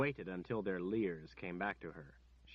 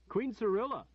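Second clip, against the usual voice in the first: shouted out, much higher and louder; loud boastful man; 9 dB louder than usual. A narrator's reading. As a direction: call out the name like a boast. Captor boasts of queen.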